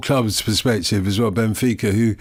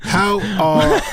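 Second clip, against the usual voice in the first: higher, louder mock French accent; 9 semitones higher, 4 dB louder than usual. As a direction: start reading the question in a put-on French accent. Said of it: "do the entire rest of the show in a French accent".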